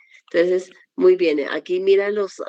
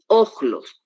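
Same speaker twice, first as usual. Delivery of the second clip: "ojlos" slowly with stressed O; stress on first omicron; 3 semitones higher than usual. Shown as a demonstration. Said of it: "el espíritu suave y el acento".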